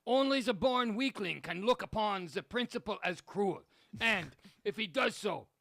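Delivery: a bad German accent reading Hitler; lightly done German accent. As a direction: read it stiffly in a mock German accent. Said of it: "What accent is that".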